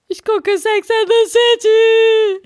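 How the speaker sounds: hammed-up tearful wail, high and slow; sobbing sister. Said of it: "Sie so".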